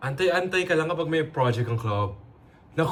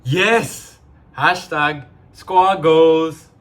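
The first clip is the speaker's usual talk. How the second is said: excited cheer; 3 semitones higher, 11 dB louder, much slower than usual. Acted. Cheering at the new member.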